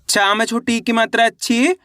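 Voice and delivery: teacher sounding out "ची" with a long rising final vowel; अक्षर-दर-अक्षर उच्चारण. Shown as a demonstration. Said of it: "एक अक्षर का उच्चारण करना है". (मात्रा बोलकर "ची" को खींचते हुए ऊपर उठाना)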